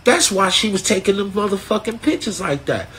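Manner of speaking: a high aha about the director; realizing. Retold or imitated. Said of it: "So I said".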